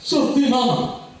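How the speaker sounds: mock Arab guard. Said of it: "Nanti ada kata".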